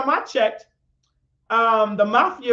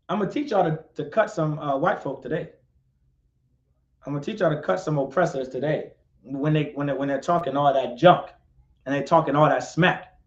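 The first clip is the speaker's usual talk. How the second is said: low aside; 9 semitones lower, 5 dB quieter, faster than usual. Acted. Mock threat, low aside.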